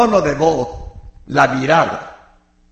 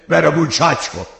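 a fond, teasing "sinvergüenza"; affectionate scolding; faster than usual. Shown as a demonstration. Preacher showing how "sinvergüenza" can be said fondly, affectionate teasing. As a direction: call him a rascal with affection, not anger. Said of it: "Y lo dices con cariño".

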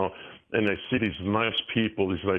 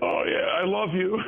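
sarcastic; 10 semitones higher than usual. Retold or imitated. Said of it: "I'm like".

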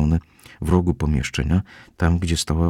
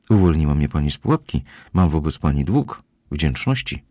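ordinary delivery

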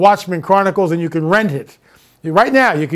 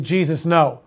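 retold frightened plea; 3 semitones lower, 5 dB quieter than usual. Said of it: "completely petrified with fear".

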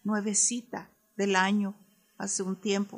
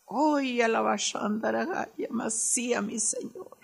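speaking in tongues. Real, not acted. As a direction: pray in tongues under your breath. (hablando en lenguas, en voz baja)

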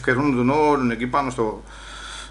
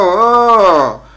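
defiant "oh"; 4 semitones higher, 7 dB louder than usual. Acted. Defiant outcry after being hushed.

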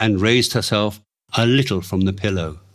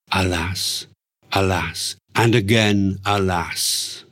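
mournful lament; 3 semitones lower, slower than usual. Acted. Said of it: "a mournful litany".

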